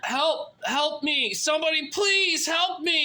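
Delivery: high pleading cry for help; sobbing ghost voice. Shown as a demonstration. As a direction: wail it like a trapped victim. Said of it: "so I make that sound".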